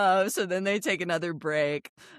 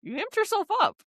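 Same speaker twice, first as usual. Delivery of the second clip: mocking Liz; 11 semitones higher than usual. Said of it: "She's like".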